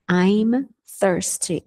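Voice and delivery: "I'm thirsty" drawn out slowly, each sound clear; slow careful "I'm thirsty" model; slow demo. Shown as a demonstration. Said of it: "A mesma coisa com sede".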